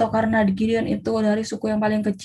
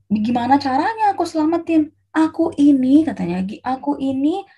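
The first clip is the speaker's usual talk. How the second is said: higher-pitched, mildly pleading objection; pleading protest; 4 semitones higher than usual. Acted. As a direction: plead your case in a higher voice. Gideão protesta ser pequeno.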